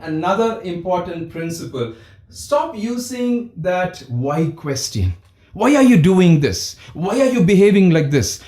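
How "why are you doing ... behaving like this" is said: loud exasperated parent demanding why; mock angry parent interrogation; scolding why. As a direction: bark the question at the teen.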